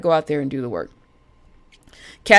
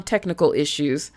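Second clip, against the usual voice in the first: normal talking voice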